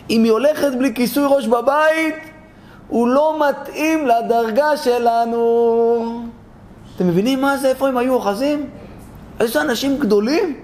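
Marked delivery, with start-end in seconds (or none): 0.1-6.2 sanctimonious verdict. Acted. Pious men pronounce him unfit.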